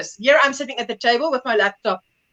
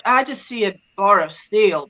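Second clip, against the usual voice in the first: lower, slow, underwhelmed aside; unimpressed; 4 semitones lower than usual. Retold or imitated. Daughter looking at father's spanners, unimpressed. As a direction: imitate someone seeing nothing special. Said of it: "And you're like".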